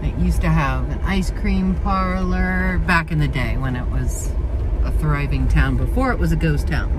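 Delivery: talking while bouncing in a car; on a bumpy road. Real, not acted. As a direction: voice jolted by bumps. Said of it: "And sorry about the bumpy".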